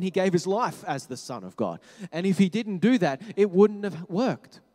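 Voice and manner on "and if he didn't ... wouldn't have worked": ordinary talk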